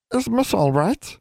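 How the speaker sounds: very high, slow elf question; house elf voice. A narrator's reading. House elf checking on the startled girl, high slow creature voice.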